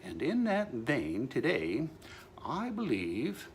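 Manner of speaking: slow, grand pronouncement to himself; mock solemn decree. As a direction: savor each word like an edict.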